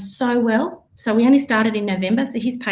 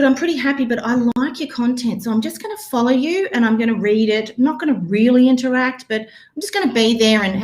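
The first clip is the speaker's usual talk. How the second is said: lukewarm prospect; 2 semitones higher than usual. Retold or imitated. Coach voicing a polite follower who is staying put. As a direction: lightly play a follower who isn't buying yet. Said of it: "and they're going".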